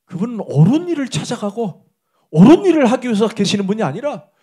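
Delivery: ordinary delivery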